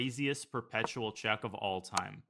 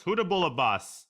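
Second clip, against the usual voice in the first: belted Southern twang, much higher and louder; loud Southern accent; 7 semitones higher, 7 dB louder than usual. Pretend. Streamer gloating at his chess opponent, loud hammed-up Southern accent. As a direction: bellow the taunt like a cocky Southern boss. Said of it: "Can you use a Southern accent".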